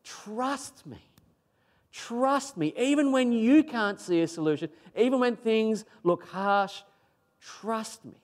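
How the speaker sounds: high-pitched, earnest appeal; crying out. Acted. Preacher as God appealing to his people, crying out. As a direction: plead from on high without shouting. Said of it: "really crying out from heaven to his people".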